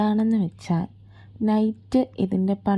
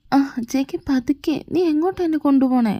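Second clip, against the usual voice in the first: alarmed protest; 5 semitones higher than usual. Acted. Girl dragged away protesting.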